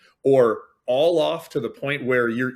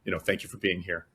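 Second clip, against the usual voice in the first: gentle; 2 semitones lower than usual. Retold or imitated. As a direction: ease the guests to their seats kindly. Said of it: "who just gently say".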